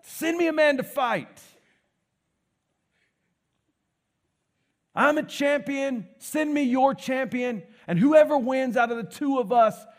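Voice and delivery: hammed-up booming Goliath; booming giant. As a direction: bellow across the valley like Goliath. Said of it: "big and booming".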